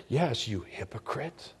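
slow, soft accusation, lightly acted as Satan; lightly voiced tempter, drawing out the insult; accusing Satan. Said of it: "He'll say".

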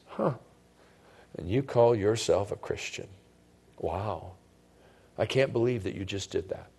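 hushed, low voice of an accusing Satan; soft, insinuating disbelief, acted as the tempter; Satan's whispered accusation. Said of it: "he whispers something into our ears".

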